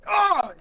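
pained cry. Acted. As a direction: cry out as if shot in the knee. Acting out kneecapped man's pain cry.

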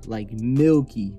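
slow, stretched milky; drawn-out. Shown as a demonstration. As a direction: drag the word out lazily.

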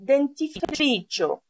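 "dentifricio" with n and t both sounded; clear Italian NT. Shown as a demonstration. Teacher models toothpaste in Italian, careful n-t pronunciation. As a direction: say "dentifricio" with a true t after the n, not Greek d. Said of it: "δεν το προφέρω «ντ» όπως στα ελληνικά".

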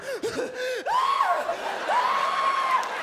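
put-on loud high cackle of kids; high shrieking laugh. Kids screaming at fart.

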